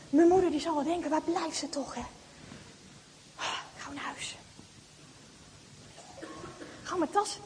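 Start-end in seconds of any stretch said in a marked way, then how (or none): 3.8-4.4 urgent unvoiced whisper. Girl rushing home with doll, urgent whisper. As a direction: hurry it under your breath.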